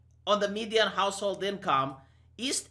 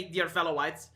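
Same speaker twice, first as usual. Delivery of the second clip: lower, softer prim recital; mock formal address; 8 semitones lower, 6 dB quieter than usual. Mocking the phrase for viewers, soft prissy parody. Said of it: "white people do not say".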